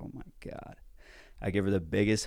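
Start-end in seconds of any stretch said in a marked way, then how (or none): 0.0-0.8 breathless whispered awe; barely voiced, overcome; awed whisper. Real, not acted. Overwhelmed by the gift.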